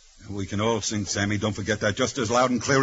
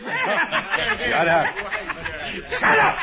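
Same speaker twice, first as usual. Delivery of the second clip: angry shout; 4 dB louder, much slower than usual. Acted. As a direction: yell it high and loud, furious. Prisoner yelling at jeering inmate.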